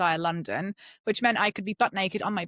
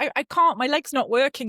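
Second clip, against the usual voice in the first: high worried plea; 5 semitones higher, 4 dB louder than usual. Retold or imitated. Pleading with fast-walking husband.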